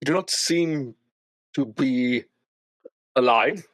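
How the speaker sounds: lightly voiced uneasy young woman; Irina, wary. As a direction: probe the strange guest carefully. Voices Irina questioning Sam.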